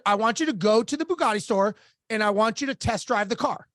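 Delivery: retold instruction, evenly spaced for emphasis; deliberate repeat. Coach repeats the task to a stunned client, deliberate and firm. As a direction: spell out the order in measured phrases.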